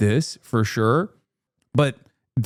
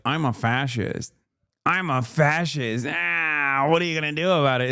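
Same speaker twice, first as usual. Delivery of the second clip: gleeful mock fascist; 2 semitones higher, 3 dB quieter than usual. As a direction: lightly imitate someone delighted with himself. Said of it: "how happy he is to be like".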